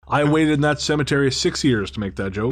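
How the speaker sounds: laughing. Real, not acted. Laughing at own joke.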